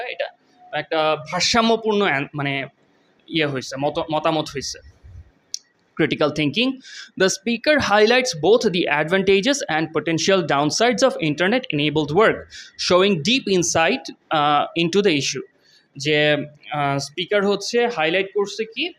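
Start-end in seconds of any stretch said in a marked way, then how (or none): 6.0-15.4 slow, careful read of the English text; slow reading aloud. Shown as a demonstration. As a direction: read each word out slowly for students. Reads model answer aloud. (ধীরে ধীরে পড়ে শোনানো)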